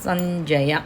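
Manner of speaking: సంజయ with the ం as a palatal ఞ nasal, slow and drawn out; ñ sound in sanjaya. Shown as a demonstration. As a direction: stretch సంజయ slowly, nasal ఞ before జ. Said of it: "ఇని sound రావాలి". (సంజయ ని నెమ్మదిగా, ఞ అనునాసికంతో పలకండి)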